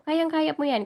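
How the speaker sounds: high, bright push on Kayang-kaya, falling at the end; emphatic cheer. Real, not acted. Reviewer rallying exam takers with an emphatic high cheer.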